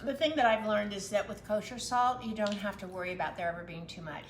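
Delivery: talking while chewing; mouth full. Real, not acted. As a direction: speak through a mouthful. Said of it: "Sorry, I'm talking with my mouth full".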